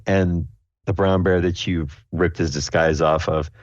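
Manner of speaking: ordinary talk, nothing marked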